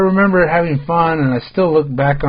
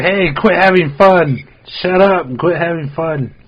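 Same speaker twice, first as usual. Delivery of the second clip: mock grumpy adult; 4 semitones higher than usual. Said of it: "You're like".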